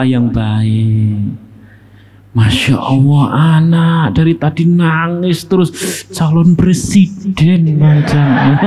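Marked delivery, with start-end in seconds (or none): 2.3-8.6 mock parent praise. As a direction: tease like a doting parent. Jokes as parent of crying child. (memuji anak sambil tertawa)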